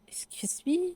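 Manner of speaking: high whispered disbelief; mock shock. Brother hearing sister has a boyfriend, shocked. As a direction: gasp it out, scandalized.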